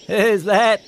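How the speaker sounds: high, startled sheep voice; bleating sheep. Acted. Barney the sheep calling out to an unseen voice, bleating. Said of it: "he bleated".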